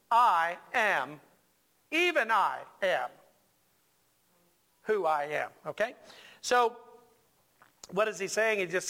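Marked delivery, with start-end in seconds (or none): 0.1-5.5 "I am, even I am, who I am" in separate weighty phrases; emphatic, spaced out. Shown as a demonstration. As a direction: pause before each part of "I am, even I am, who I am". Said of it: "It's emphatic".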